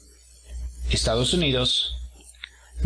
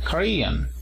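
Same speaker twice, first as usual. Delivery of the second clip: "Korean" as ko-REE-an, higher on REE; stress on second syllable; 5 semitones higher than usual. Shown as a demonstration. Teacher models "Korean" from IPA symbols, stress on second syllable. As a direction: punch the middle of "Korean". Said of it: "a partir de la segunda".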